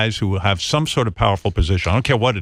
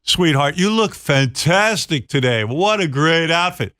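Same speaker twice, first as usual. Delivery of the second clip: creepy coworker; 5 semitones higher, slower than usual. Retold or imitated. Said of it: "you go".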